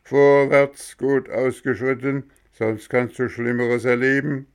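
loud soldier-style order; military command. A narrator's reading. Gendarmes march the boy off, loud military command. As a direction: bark it like a drill sergeant. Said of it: "kommandierte nach Soldatenart".

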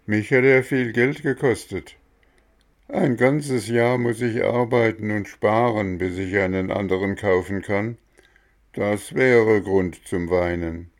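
lightly voiced gardener; Mexle's voice.

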